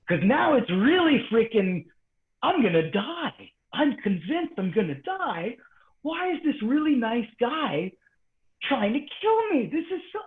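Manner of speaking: high, slow, mock-terrified; relived panic. Choked student reliving his panic, high and slow. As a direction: drag it out like you're sure you'll die.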